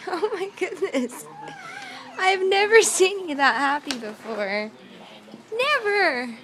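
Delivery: crying through happy words; real choked-up wonder; tearful joy. Real, not acted. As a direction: let the happy tears catch the voice. Mother moved by baby's joy.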